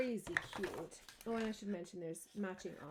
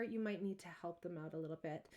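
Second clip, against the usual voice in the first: ordinary talk, nothing marked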